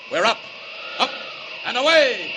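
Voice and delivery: ringing, loud "up and away"; heroic cry. Acted. Superman taking off, booming heroic shout. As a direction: launch into the air with a big cry.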